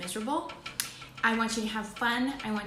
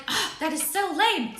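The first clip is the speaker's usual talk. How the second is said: higher, slow, whiny "so lame"; mocking whiny voice; 9 semitones higher, 6 dB louder than usual. Mimicking a let-down holiday guest, high and whiny. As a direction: put on a sulky disappointed guest. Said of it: "And then you're like".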